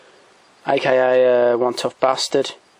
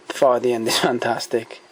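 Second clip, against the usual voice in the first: laughing. Real, not acted. Laughs recalling the final fight.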